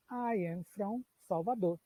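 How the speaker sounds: slow, clear English example; slow model sentence. Shown as a demonstration. Teacher models the sentence for students, slowly. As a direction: say it slowly for learners. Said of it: "Eu usaria essa construção aqui".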